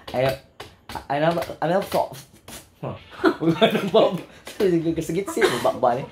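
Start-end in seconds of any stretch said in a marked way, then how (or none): 0.1-2.2 attempted British accent; a celebrity. Host imitating a celebrity, attempted British accent. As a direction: have a go at British English. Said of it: "Kanang sinultian ni James Reid, British".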